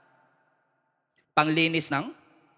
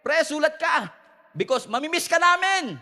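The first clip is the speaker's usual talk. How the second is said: left-behind toothbrushes; 7 semitones higher than usual. Pretend. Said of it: "ano kayo sinasabi ng mga naiwan?".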